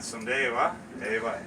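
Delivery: Newfoundland dialect, rising on "wa"; Newfoundland small talk. Shown as a demonstration. Two locals agree about the weather, Newfoundland dialect. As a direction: chat casually in slurred Newfoundland dialect. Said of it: "another conversation that you might hear in Newfoundland".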